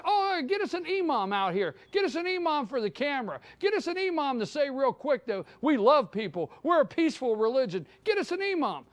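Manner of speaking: high, sneering staffer impression; mock staffers. Host lampooning staffers hunting an imam, high mocking voice. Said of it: "they say".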